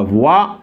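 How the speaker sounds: "voix" as vwa, rising at the end; pronounced "wa". Shown as a demonstration. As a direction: model "voix" with a w-a glide. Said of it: "on le prononce comme ça". (« voix » prononcé voua, en montant)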